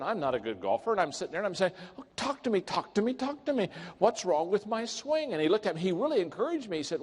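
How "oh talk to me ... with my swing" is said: eager pleading. Retold or imitated. Begging golf partner for advice.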